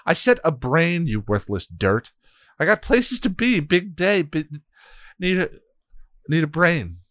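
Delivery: high, loud angry snarling; growling. Acted. Hell god scolding a worthless minion, angry. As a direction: bark it at the useless servant. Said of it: "Glory growled".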